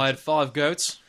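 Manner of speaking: slow, lightly put-on Australian accent. Echoing his friend's line for the Yowie witness, Australian accent. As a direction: drawl it out like an Aussie farmer. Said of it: "just echo it back in Australian".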